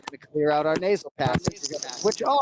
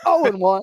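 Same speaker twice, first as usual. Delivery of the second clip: "Oh and one" pushed higher and louder; teasing stress; 6 semitones higher, 5 dB louder than usual. Real, not acted. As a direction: rub it in, lean on "Oh". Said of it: "does it sound like I'm rooting against you".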